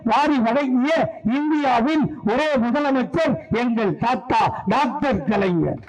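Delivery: chanted political litany, climbing steadily in pitch; rhythmic stage recitation, rising as it goes; rhetorical oration. Acted. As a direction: build question and answer towards a climax. Recites a long rhetorical praise litany.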